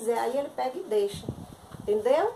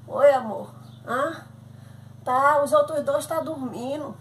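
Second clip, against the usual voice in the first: louder phone call; loud over noise; 6 dB louder, slower than usual. Acted. Mother shouting into the phone over crying children, loud.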